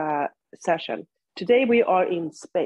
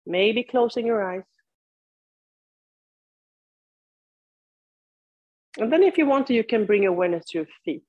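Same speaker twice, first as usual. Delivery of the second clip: unhurried cues with long silences between; guided yoga practice. Real, not acted. Teacher leads seated students into body awareness, guided meditation delivery. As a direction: guide them through it, leaving room to breathe.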